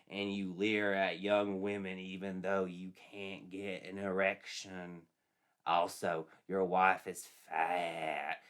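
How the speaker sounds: slow, lightly voiced spirit taunting; ghostly witch voice. Witch spirit taunting James in the night, slow and eerie. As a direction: drag each insult out slowly, a hint of a haunting spirit. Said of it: "Kate's voice spoke to them".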